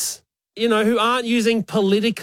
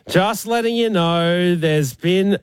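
mock breezy notice; 2 semitones higher, slower than usual. Mock email voice, slow.

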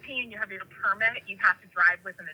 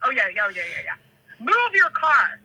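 retold demand; 3 semitones higher than usual. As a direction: bark an order as the angry cousin, half in play. Cousin confronting a driver, retold.

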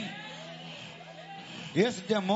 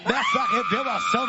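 forceful revival preaching; fiery exorcism sermon. Real, not acted.

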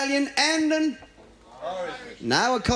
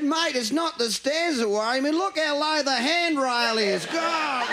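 put-on laughing drunk; 7 semitones higher, slower than usual.

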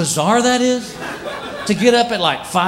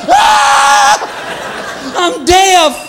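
high shrieked mock panic, fading to breathless; 11 semitones higher, much slower than usual. Visitor at barkless dog's yard, hammed-up panic. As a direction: pretend you've suddenly gone deaf.

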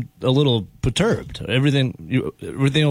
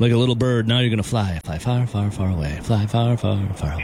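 Forrest Gump quote; 4 semitones lower than usual. Retold or imitated. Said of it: "you were quoting Jenny Gump".

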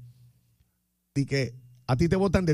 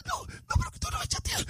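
squeaky, high whining woman's voice; whiny girlfriend; 5 dB quieter than usual. Pretend. Host voices girlfriend complaining he never texts, high whine. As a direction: play the clingy girl who feels ignored. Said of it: "whiny woman voice".

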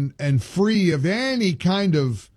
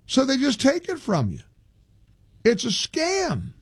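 mocking quote; 6 semitones higher than usual. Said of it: "posted on social media after seeing".

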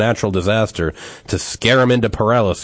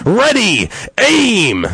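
much higher, loud drawn-out command; captain's shout; 13 semitones higher, 6 dB louder, much slower than usual. Acted. Captain gives the last firing order, loud high shout. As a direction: bellow the orders. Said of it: "The captain shouted out".

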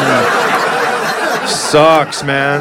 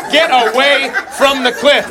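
mock drawn-out fretting mom; 8 semitones higher, slower than usual. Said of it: "the mom is like".

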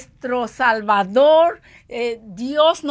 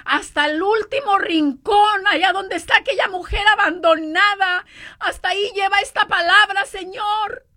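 fervent prayer; 5 semitones higher than usual. Retold or imitated. Quoted fervent prayer to God.

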